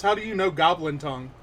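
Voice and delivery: quick, loud question at normal pitch; milder shock. Acted. Game master rewording the goblin's question, quick and mildly shocked. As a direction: rattle it off, only mildly surprised. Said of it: "looks up at you shocked and says".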